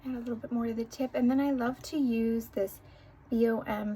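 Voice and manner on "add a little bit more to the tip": applying mascara. Real, not acted. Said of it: "And do my funny mascara face".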